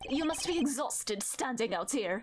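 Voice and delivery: put-on German accent. Voicing Gavin greeting a young woman: German accent as Gavin. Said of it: "do I need to give him a German accent?".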